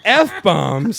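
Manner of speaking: loud, high, disbelieving question; mock-appalled outburst; horrified echo. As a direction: repeat it in acted dismay. Horrified echo of the runner's answer.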